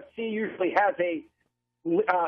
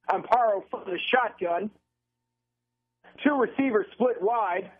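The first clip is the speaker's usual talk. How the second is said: measured radio football call between snaps; live play-by-play; 3 semitones higher than usual. Real, not acted. Announcer describes second down from the shotgun, measured play-by-play. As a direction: set up each play for radio listeners.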